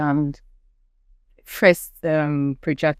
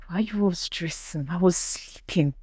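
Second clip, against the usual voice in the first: fake drowsy; 3 semitones higher, 5 dB quieter than usual. Pretending to have been asleep to the crowd, mock drowsy. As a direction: pretend you just woke up. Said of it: "I started yawning like I was sleeping".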